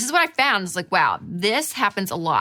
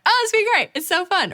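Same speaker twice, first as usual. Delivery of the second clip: high, gushing excitement; giddy squeal of a voice; excited, joyful; 12 semitones higher, 5 dB louder, faster than usual. Acted. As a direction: gush with hammed-up joy. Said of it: "I get so excited, so joyful".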